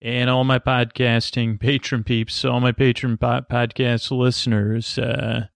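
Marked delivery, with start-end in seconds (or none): 0.0-2.7 ringmaster. Pretend. Mock ringmaster opening.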